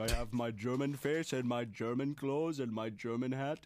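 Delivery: put-on typical German character; mock German accent. Introducing himself as typical German subject, mock German accent. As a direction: play a stereotypical German, accent all through. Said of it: "I am your typical German subject".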